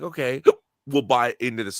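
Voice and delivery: talking through hiccups; hiccuping. Real, not acted. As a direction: hiccups breaking the words. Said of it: "Sorry, I'm hiccuping".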